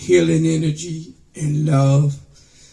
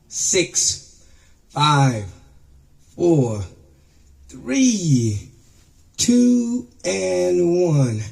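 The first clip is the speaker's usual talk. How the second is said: new year countdown crowd; slower than usual. Pretend.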